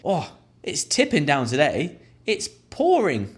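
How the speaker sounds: slow high rainy moan; small talk complaint. Shown as a demonstration. Passenger chatting to a stranger about the downpour, high. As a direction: chat about the rain to a stranger.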